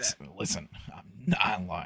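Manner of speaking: soft, unconvincing insistence, even worse. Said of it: "it's even worse".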